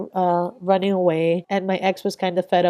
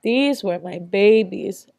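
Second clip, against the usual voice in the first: holding back tears; slower than usual. Real, not acted. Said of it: "I'm gonna try not to get emotional".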